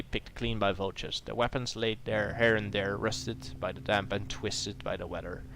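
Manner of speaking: atmospheric read of the misty foothills; story narration. A narrator's reading. Describing the approach to the ogre's lair, storybook narration. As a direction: set the scene like a storyteller. Reads scene setting.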